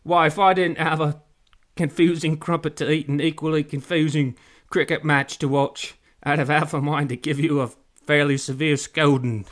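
loud, scolding pirate with mouth full. A narrator's reading. Pirate threatens a scolding, loud mouth-full voice. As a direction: bluster like a muck-mouthed pirate. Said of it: "sounded like he had shit in his mouth".

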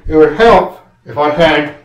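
talking around screws in mouth; mouth full. Real, not acted. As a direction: mumble through a mouthful. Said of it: "you can't really talk when your mouth's full".

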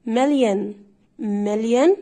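مليون as "MEL-yen"; drawn-out model, no o sounded; English pronunciation. Shown as a demonstration. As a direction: reduce the ending of مليون to "yen". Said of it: "عشان وراها ان".

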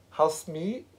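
a hint of broad Yorkshire on the vowel; Housemate? with a Yorkshire lilt, rising. Real, not acted. Host asks the evicted guest, broad Yorkshire. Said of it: "What went full on Broad Yorkshire?".

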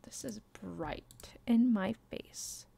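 hushed whispered aside; whispering. Real, not acted. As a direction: whisper it to yourself. Mutters about screen brightness.

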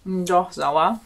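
chewing gum while talking. Real, not acted. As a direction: speak through chewing gum. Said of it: "Erstmal kaue ich mal ein bisschen Kaugummi". (mit Kaugummi im Mund)

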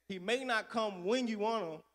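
rising shout on what; call-out. Retold or imitated. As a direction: throw it to the congregation. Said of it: "the mothers in my church used to have a saying".

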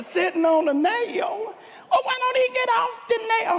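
high, incredulous squeal; astonished Clem. Retold or imitated. Clem squealing in disbelief at Bubba, high and fast.

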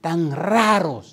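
high, loud, drawn-out mock wail; crying, preaching. Son preaching to his mother and crying, wailing. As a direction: wail it imploringly, imitating a tearful preacher. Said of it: "empezó a predicar a la mamá y a llorar".

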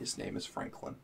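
secretive whisper. Pretend. Slug joke bit.

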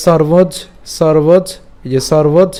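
"সর্বজ" cut off before the ইয় part; broken-up pronunciation. Shown as a demonstration. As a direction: stop after "সর্বজ", drawn out slowly. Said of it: "সর্বজ পর্যন্ত উচ্চারণ করতে পারি". ("সর্বজ" পর্যন্ত ধীরে উচ্চারণ)

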